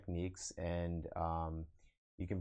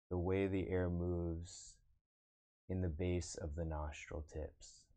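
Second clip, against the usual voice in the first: guided meditation. Acted. Meditation teacher guiding online viewers to observe the breath, guided meditation. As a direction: lead them into breath awareness, unhurried. Leads a meditation after chatting.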